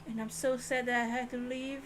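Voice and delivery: mock Susato. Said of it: "She's like".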